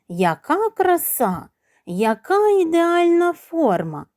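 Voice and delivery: slow, drawn-out purr of admiration; purring cat. A narrator's reading. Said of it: "замурчав кіт".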